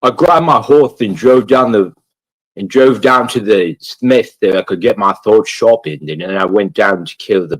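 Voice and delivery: a light mock of an earnest game hero; lightly voiced knight droning through errands; game character impression. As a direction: streamer mocking the Kingdom Come guy. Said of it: "he talks just like that".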